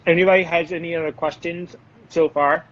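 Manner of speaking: talking through a mouthful of chocolate; chewing while talking; mouth full. Real, not acted. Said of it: "talking with my mouth full".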